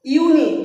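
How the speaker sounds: ইউনিক opening on "yoo", not "aa"; clear model pronunciation. Shown as a demonstration. Teacher repeating for pupils, ইউনিক pronounced with a clear "yoo". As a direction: say ইউনিক as a model, with a distinct "you" at the start. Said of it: "উচ্চারণটা ইউই হচ্ছে".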